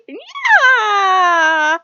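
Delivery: high squealing laugh on yeah; laughing yell. Real, not acted. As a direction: shriek it through laughter. Laughing hard at Loki story.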